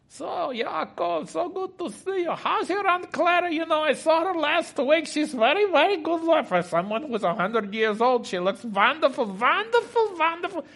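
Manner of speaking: high-pitched, hammed-up Jewish accent. Guests chatting while the meal is prepared, Jewish accent. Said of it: "That's my Jewish accent".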